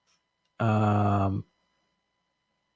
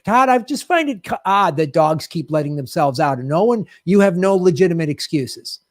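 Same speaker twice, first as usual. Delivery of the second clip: mock indignant rant; 4 semitones higher than usual. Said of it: "like, elevate".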